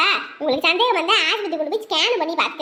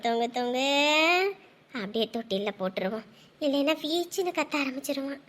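put-on soft, lower crooning to a sleepy baby; hushed lullaby; 7 semitones lower, 5 dB quieter than usual. Mother softly lulling her baby to sleep, crooning. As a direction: hush the baby down gently.

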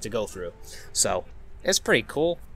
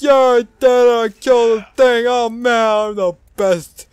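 loud, high victory crowing; hammed-up bragging; 10 semitones higher, 10 dB louder than usual. Celebrating character brags about the kill, hammed-up boasting. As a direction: boast at full volume, imitating a winner.

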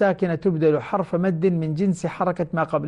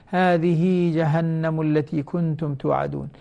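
recited verse; slower than usual. Shown as a demonstration. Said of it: "تمد مدا طبيعيا".

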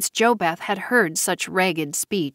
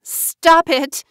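much higher, louder plea; cry out; 9 semitones higher, 5 dB louder than usual. A narrator's reading. JoBeth begging Tamara to stop, crying out. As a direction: make her stop.

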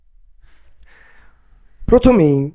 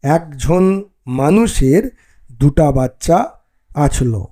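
Barendri dialect reading; slower than usual. Shown as a demonstration. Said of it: "নিদর্শনটা এইরকমভাবে হবে".

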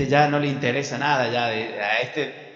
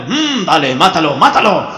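bloodthirsty egging-on, building louder; mock eager urging; 5 dB louder than usual. Parody of God egging Abraham on, eager. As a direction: goad him on, hammed-up.

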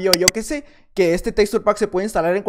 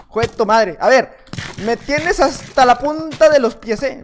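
louder, annoyed grumbling, last line slow; frustrated outburst; 3 semitones higher, 5 dB louder, slower than usual. Real, not acted. Gamer fed up with an archer opponent, loud annoyed grumble. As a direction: vent at the player who keeps shooting you.

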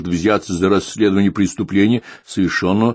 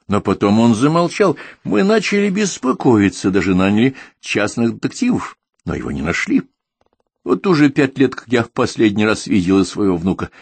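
put-on higher old woman telling of her lost grandson; stubborn old woman, higher, pleading; old lady voice; 5 semitones higher than usual. Old woman tells her story.

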